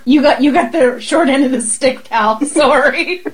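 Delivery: playful caricature of Canadian speech; Canadian accent. Acted. Teasing her friend about the swap, Canadian accent. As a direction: put on an apologetic Canadian accent. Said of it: "And you start talking Canadian".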